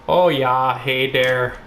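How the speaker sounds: lightly attempted Russian accent; casual mock Russian accent; joking Russian accent. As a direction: put on a half-hearted Russian accent. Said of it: "This is my Russian accent".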